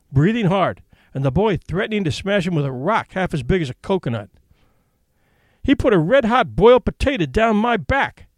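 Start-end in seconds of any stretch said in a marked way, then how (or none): 5.6-8.3 higher and louder, indignant Bill; outraged at the burn, a touch hammed-up; aggrieved complaint. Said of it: "explained Bill".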